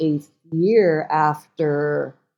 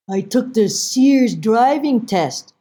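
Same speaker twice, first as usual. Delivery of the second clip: slow, slightly high mother impersonation; mother's voice; 5 semitones higher, 4 dB louder, slower than usual. Retold or imitated. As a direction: confess slowly as the mother. Mother confessing, acted in story.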